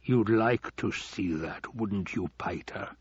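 slow, drawn-out villain's question; lightly voiced lord toying with his servant; needling Baron.

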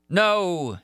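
high dramatic cry; shouted. A narrator's reading. Monster forcing the truth on Christine, shouted. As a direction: shout it as a command. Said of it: "he shouted".

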